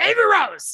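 mock shrill, very high, loud scream. Retelling chasing a toddler in a store: retelling a scream. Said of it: "I just screamed".

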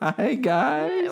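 giggled, very high laughing words. Greeting listeners at the start of an episode, laughing while talking. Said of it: "Why are you laughing?".

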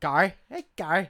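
put-on Irish accent. Told to say a name with the irish accent, in a put-on irish accent. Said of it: "You got to say that with the Irish accent".

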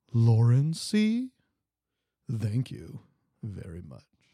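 silky, smooth radio-announcer voice, slow and swooping. A silky shout-out thanking someone, in a put-on radio voice. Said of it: "In the most radio voice I can do it".

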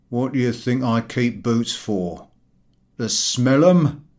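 slow, thick-throated, husky speech. Reading a story aloud, voicing an annoyed shopkeeper: thick husky voice. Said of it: "in a thick and husky voice".

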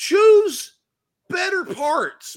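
exasperated voice, high-pitched, loud and slowed down.

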